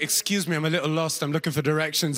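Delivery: put-on lightly done British accent. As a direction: speak as a British visitor asking politely. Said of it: "like a British person".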